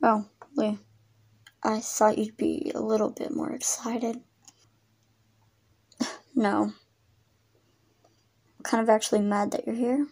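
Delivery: soft whispered exchange; hushed. Acted. Exes whispering tensely about getting back together.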